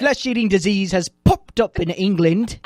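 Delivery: a quick mock British newsreader accent. Shown as a demonstration. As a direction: read the headline in a light put-on British accent. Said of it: "you have to read it with a British accent".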